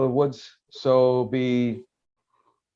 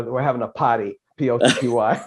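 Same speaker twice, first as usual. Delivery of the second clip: a hint of a Boston accent; lightly voiced Boston accent sign; faster than usual. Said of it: "the Boston accent".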